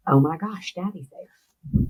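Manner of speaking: soft, slowing, stunned retelling; hushed realization. Retold or imitated. Daughter voicing father seeing his daddy, hushed realization. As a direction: let it sink in quietly and slowly.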